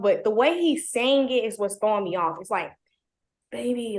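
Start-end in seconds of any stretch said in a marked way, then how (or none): 3.5-4.0 mock drunken baby; drunk slur. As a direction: slur it softly like he's tipsy. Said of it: "it's like he's drunk".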